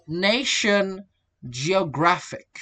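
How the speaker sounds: "nation" on NA, "geographic" on GRAPH; stress before suffix. Shown as a demonstration. Teacher showing suffix stress, "nation" and "geographic" stressed before the suffix. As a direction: lean on the syllable before each ending. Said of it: "Stress falls between, before the suffix".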